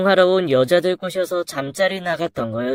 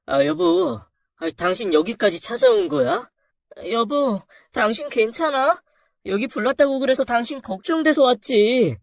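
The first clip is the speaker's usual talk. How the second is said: worried wife; 6 semitones higher than usual. Acted. Wife worried about husband at fire.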